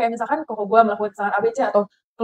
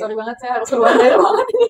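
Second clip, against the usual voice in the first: mock polite exit. Imitating cousin leaving room, laughing.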